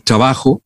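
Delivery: "trabajo" with tr softened to ch; che sound for tr. Shown as a demonstration. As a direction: say "trabajo" as "chabajo". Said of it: "Ponte tú el sonido che".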